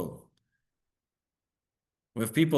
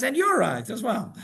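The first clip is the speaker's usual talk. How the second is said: high, slow, mock-gentle rabbi; rabbi's reply; 8 semitones higher than usual. Rabbi answers his wife, gently amused. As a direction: hand her the verdict with a light wink. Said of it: "he turns to her and he says".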